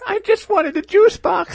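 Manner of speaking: put-on high, whiny child voice; little kid voice. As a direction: play a five-year-old. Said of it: "I'm five".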